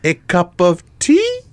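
high, slow put-on Asian accent; mock Asian accent. British lady after head injury offers tea, mock Asian accent. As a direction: draw it out in a hammed-up Asian accent. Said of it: "British lady speaking with an Asian accent".

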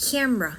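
"camera" squeezed into CAM-ra; two-syllable camera. Shown as a demonstration. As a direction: say "camera" in just two syllables, stress first. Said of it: "มีสองพยางค์เท่านั้นนะ". (ออกเสียง "camera" สองพยางค์ แคม-ระ)

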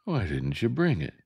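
yelled. Acted. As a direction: throw the question back angrily. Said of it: "Jem yelled".

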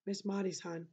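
soft, gentle reassurance; gently comforting a scared child. A narrator's reading. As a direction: ease the bad news softly to the child. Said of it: "said Atticus gently".

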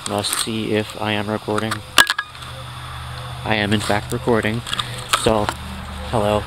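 stiff, formal robotic delivery. Pretend. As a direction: speak like a deadpan robot. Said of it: "I'll stop talking like a robot".

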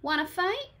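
cranky ladybug calling out; grouchy ladybug. Acted. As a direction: bark it like a cranky tiny bug. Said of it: "said the grouchy ladybug".

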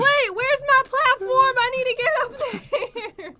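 high, loud, worked-up plea; urgent whine. Real, not acted. Player has lost her platform, urgent whine. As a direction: wail it in a rising fluster. Alarm at missing game platform.

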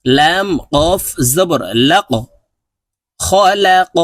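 খলাক with the ক bounced out, a short jolt; কলকলা, ধাক্কা দিয়ে ক; qalqala on qaf. Shown as a demonstration. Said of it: "এইভাবে বলতে হবে".

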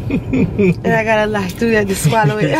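talking with gum in mouth; words wet round a wad of gum; chewing gum. Real, not acted. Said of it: "I got this gum in my mouth".

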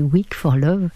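slow, deliberate English-accented "Weak for Love"; le titre anglais, prononcé avec application. Real, not acted. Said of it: "attention à mon accent anglais".

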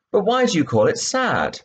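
put-on high, wondering girl's question; curious Alice. Alice asking the Mouse about its tale, puzzled. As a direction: lift it into a puzzled child's voice.

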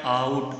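"आउट" with a stretched au glide; au sound. Shown as a demonstration. Teacher shows the shared sound, au stretched in "आउट". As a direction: draw out the au in "आउट". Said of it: "आउ का आ रहा है".

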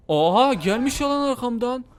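high, loud startled outburst. Real, not acted. Caught by Granny behind him, high startled outcry. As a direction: jump in alarm, voice up.

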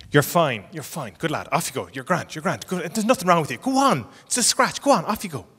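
mock dismissive parent, rising in pitch; brisk reassurance building to a shooing-off; busy parent's brush-off. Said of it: "you're busy, and you go".

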